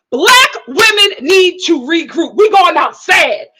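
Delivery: slow, loud emphatic declaration; rallying call. Real, not acted. Urging black women to regroup, slow loud preaching. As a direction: preach it to the viewers.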